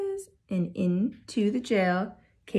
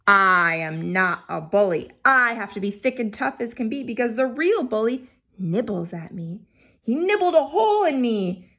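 groaning wall. Acted. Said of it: "The wall groaned".

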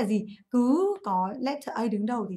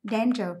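"danger" stressed on DAN; stress on first syllable. Shown as a demonstration. Teacher shows students the stress pattern, "danger" stressed on first syllable. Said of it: "Âm tiết số một".

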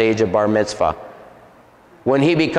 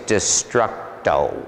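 slow, lower demon voice; demon's name; 6 semitones lower, 3 dB quieter, much slower than usual. Retold or imitated. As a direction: draw the name out low and slow. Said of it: "That's what his name was".

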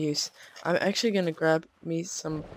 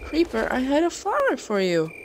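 mock sweet to creeper; 9 semitones higher, 4 dB louder than usual. Real, not acted. Talking to a creeper mob.

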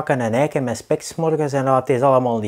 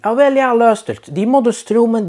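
whiny official; 10 semitones higher, 4 dB louder than usual. Retold or imitated. Official telling the alderman it is not his job, whiny. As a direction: plead helplessly, passing the buck.

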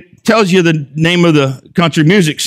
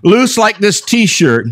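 lyrics read with rising, hammed-up excitement, higher and higher; mock dramatic reading; 4 semitones higher than usual. Preacher reading country song lyrics to the congregation, hammed-up and climbing. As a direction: ham up the breakup lyrics like a ballad. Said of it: "here's some of the words".

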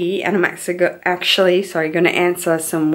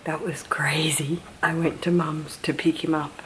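hushed, breathy whisper, barely voiced; 6 dB quieter than usual. Real, not acted. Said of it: "And why am I whispering?".

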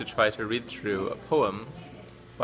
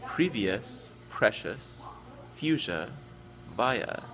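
slow, measured poem reading with careful word-by-word pauses; poem recitation; slower than usual. Acted. Reading the poem Chaos to show tricky English pronunciation, measured recitation. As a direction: recite each rhyming word slowly and distinctly.

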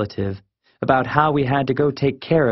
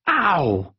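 higher-pitched cry of pain; pained yelp; 6 semitones higher than usual. Acted. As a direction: yelp from a second punch. Punched again by his friend.

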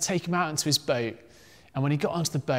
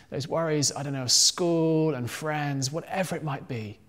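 softened, sincere closing prayer; 3 dB quieter than usual. Real, not acted. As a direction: pray gently on behalf of the listeners.

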